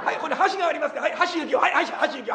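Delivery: lightly voiced comic gag; imitating Sanpei's pun. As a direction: toss off the silly pun like the master. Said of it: "呆れ切っちゃった".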